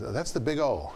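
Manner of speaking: retold wry remark; imitating a wry Dorothy. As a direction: land the nickname dryly. Dorothy names the nickname.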